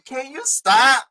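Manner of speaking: high, slow, drawn-out can you stop; plead, stretching each word; exasperated plea. Real, not acted. Begging the co-host to stop, high and slow. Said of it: "that's what I mean".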